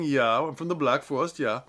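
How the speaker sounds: lilting mock German, lightly put on; sing-songy German accent. Shown as a demonstration. Director demonstrating a Black Forest character, sing-songy German accent. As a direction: bounce through a silly German accent. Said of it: "sort of a sing-songy German".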